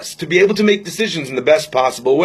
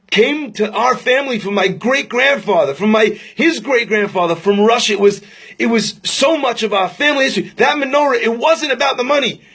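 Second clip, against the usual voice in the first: higher, rising protest with feeling; impassioned; 5 semitones higher than usual. Retold or imitated. Old man explaining the menorah to the rabbi, impassioned. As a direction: insist on what the heirloom means.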